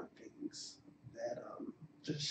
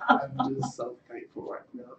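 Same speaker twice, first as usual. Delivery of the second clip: louder, laughing mid-sentence; laughing through tears; 8 dB louder than usual. Real, not acted. Derek laughing through tears as he thanks the team.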